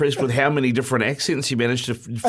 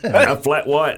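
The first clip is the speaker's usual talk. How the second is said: laughing retelling; 3 semitones higher, 5 dB louder, slower than usual. Retold or imitated. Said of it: "I was like".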